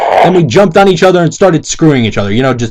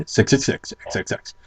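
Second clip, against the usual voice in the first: mock spooky whisper; 3 semitones lower, 13 dB quieter than usual. Reading spooky author sign-off.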